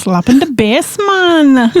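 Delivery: Paul Rudd quote. Retold or imitated. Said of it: "You sound like Paul Rudd".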